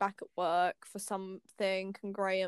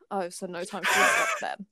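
tag; 4 dB louder than usual. Retold or imitated. Quoting Graham, breaks into laughter.

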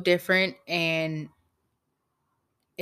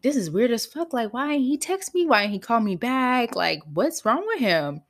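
retold bewildered complaint; 5 semitones higher than usual. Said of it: "I'm like".

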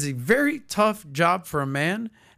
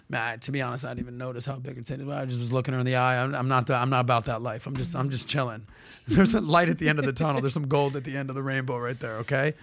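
lower, softer laid-back mock cool guy; cool dude; 4 semitones lower, 4 dB quieter, faster than usual. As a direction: play it chill and unbothered. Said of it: "the cool dude that's like".

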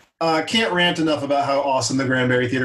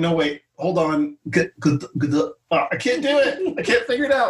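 flustered accent attempt; 3 semitones higher than usual. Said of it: "And you're like".

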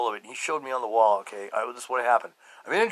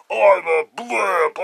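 laughing self-mockery; 3 semitones higher, 6 dB louder, much slower than usual. Real, not acted. Mocking himself, laughing.

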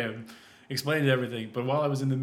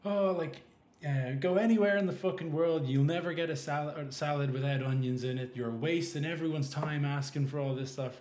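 a raised, mildly imitated furious chef; mock angry rant; 2 semitones higher than usual. Chef berating a crying customer, mock angry rant. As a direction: retell the chef's ranting, pitch up but held back. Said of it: "he's, like, screaming and shouting and swearing".

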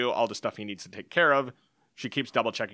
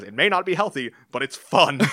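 gleeful retort; 2 semitones higher, 6 dB louder than usual. Retold or imitated. Husband answering wife's worry about the bet, gleeful. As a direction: brush off the worry with glee.

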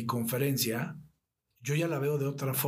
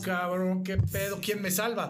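pánico imitado; 6 semitones higher than usual. Retold or imitated. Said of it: "estoy parado ahí solo y digo".

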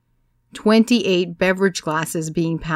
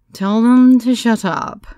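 slow, louder blunt command; pregnant woman's blunt order; 5 semitones higher, 8 dB louder, slower than usual. A narrator's reading. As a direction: say it flatly, a firm order. Pregnant woman's gruff quote.

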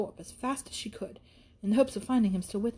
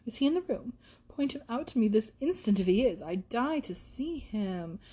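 put-on gushing young lady; 3 semitones higher than usual. Isabella admiring her friend's acquaintance, lightly voiced gushing. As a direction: gush lightly, then draw out the ending. Isabella gushes over the sister.

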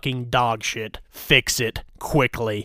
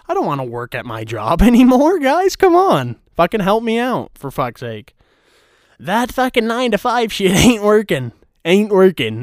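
high, loud comic whine; hammed-up desperate complaint; exasperated pleading; 7 semitones higher, 5 dB louder than usual. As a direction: beg the audience, voice shooting up. Comic begging rant at viewers.

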